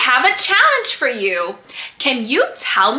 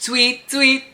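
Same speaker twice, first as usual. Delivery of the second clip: bird tweeting; 4 semitones higher, slower than usual. Pretend. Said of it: "And she says".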